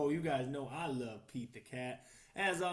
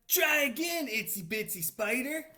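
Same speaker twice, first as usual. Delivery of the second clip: higher, louder encouraging call; Pete the Cat cheering; 8 semitones higher, 10 dB louder than usual. Acted. Pete the Cat calls to the spider, lightly voiced encouragement. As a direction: urge the spider on like a friend. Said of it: "Pete the Cat said".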